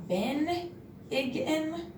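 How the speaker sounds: "Ben Igin" said high and slow as a wrong guess; wrong reading. Shown as a demonstration. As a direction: misread "Ben Igin" hesitantly, high and drawn out. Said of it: "that cannot be right".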